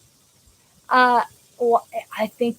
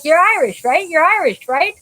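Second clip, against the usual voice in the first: eager Irish locals; 4 semitones higher, 4 dB louder than usual. Retold or imitated. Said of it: "they're like".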